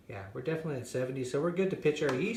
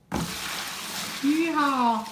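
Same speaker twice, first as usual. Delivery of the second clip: fake cowboy accent; 12 semitones higher, 7 dB louder than usual. Pouring wort into bucket.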